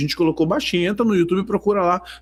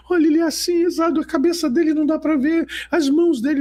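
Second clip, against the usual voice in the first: much higher excited mock voice; imitating the sister; 11 semitones higher, faster than usual. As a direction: voice her describing, high and eager. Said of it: "a Alice gritava".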